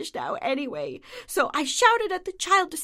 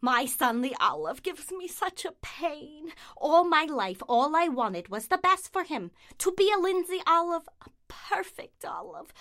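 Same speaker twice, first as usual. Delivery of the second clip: a hint of a nagging mother; kvetching mother. Olive mother complaining about her son, nagging.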